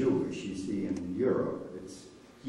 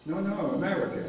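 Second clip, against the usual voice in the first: mildly imitated halting English, pitched up; hint of halting foreign English, higher voice; 7 semitones higher, 4 dB louder, faster than usual. Soldier trying to reassure a frightened boy, halting English. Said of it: "He said, in halting English".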